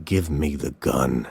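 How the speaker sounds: quiet pleading; tearful plea. A narrator's reading. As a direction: hold back tears as you ask. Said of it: "his eyes filled with tears".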